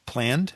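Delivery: "planned" drawn out slowly for emphasis; slow, deliberate weight on "planned"; stress on planned. Real, not acted. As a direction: lean on the word "planned", stretching it. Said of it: "emphasis on the word".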